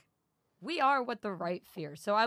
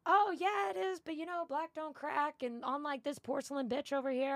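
higher, sassy mocking voice of a heckling girl; mock heckler; 7 semitones higher than usual. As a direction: toss it off like a snide passerby. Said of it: "the girl still yelling at me".

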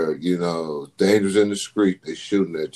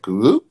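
imitated call beep; 5 semitones higher, 5 dB louder than usual.

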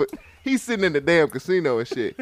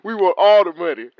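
kidnapper shout; 4 dB louder than usual. Pretend. Playing demanding kidnapper.

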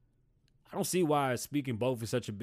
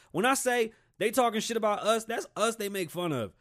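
ordinary talk

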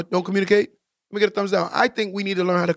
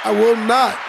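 I WILL NOT, said louder and punched; louder, emphatic; 3 semitones higher, 4 dB louder, slower than usual. Real, not acted. Telling his men on record, louder and emphatic. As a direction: raise your voice on "I will not". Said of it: "I say this louder".

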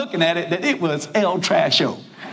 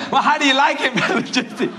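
lightly voiced hopeful hostess; hostess asking; 5 semitones higher than usual. Hostess asks the preacher, lightly voiced hope. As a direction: ask sweetly, waiting for praise. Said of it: "And she said".

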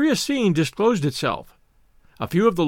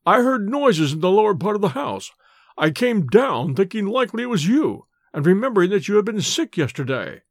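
slightly higher character voice, faltering; lightly voiced Bates, hurt; 3 semitones higher than usual. Injured servant reporting to his master, mildly faltering. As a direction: recount it as a hurt, dazed servant.

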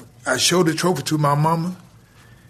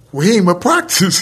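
laughing protest; 4 semitones higher, 5 dB louder than usual. Retold or imitated.

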